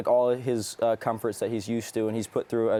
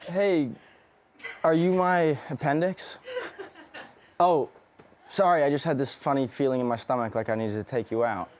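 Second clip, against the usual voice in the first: suave pickup line. Pretend. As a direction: deliver the cheesy line like a smooth Prince Charming. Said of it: "of suave pickup line? Go".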